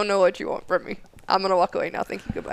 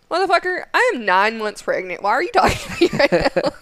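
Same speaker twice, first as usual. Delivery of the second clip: outraged rant; 7 semitones higher, 3 dB louder than usual. Retold or imitated. Outraged at instructor, retold.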